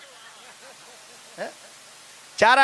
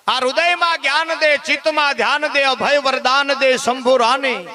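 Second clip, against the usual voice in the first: spoken prayer; 3 semitones higher than usual. Shown as a demonstration. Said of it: "એવી માને પ્રાર્થના કરી".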